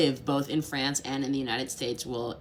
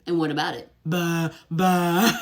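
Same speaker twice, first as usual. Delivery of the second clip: louder, put-on careless scoff; dismissive French shrug; 2 semitones higher, 7 dB louder than usual. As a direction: play unbothered French indifference. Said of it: "they'll be like".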